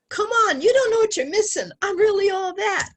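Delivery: high, loud, fast cocky boast; cocky suitor. Retold or imitated. Boastful suitor pushing for sex, high loud cocky boast. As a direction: brag like a smug player.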